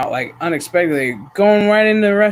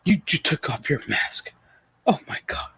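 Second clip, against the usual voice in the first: mock shock; 2 semitones lower, 6 dB quieter than usual. Acts shocked staff seeing mask off.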